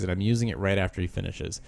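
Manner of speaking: normal talking voice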